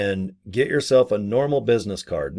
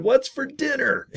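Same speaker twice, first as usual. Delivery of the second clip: spouse asking. Retold or imitated. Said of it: "they said".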